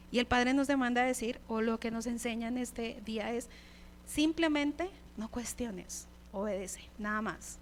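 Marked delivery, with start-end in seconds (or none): 4.0-7.6 slow firm command. Acted. God commanding obedience.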